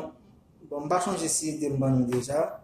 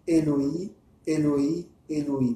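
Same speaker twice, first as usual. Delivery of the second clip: "Eloi, Eloi, Eloi" with the first ones rising; recited invocation; 3 dB louder, slower than usual. Shown as a demonstration. Teacher recaps what riders say three times, recited invocation. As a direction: say "Eloi" three times, separated, lifting the ends. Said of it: "pendant trois fois".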